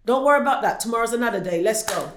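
mum's voice lifting a beaten daughter, high and loud; encouraging mum. Retold or imitated. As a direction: cheer her on the way her mum would. Mum voiced cheering her daughter on.

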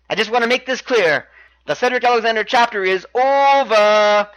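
lightly acted wrestler's mic promo; a touch of showy proclamation to an absent sweetheart; Noam Dar. Wrestler addresses his love at home, lightly acted promo voice. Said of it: "Noam Dar then grabs the mic and says".

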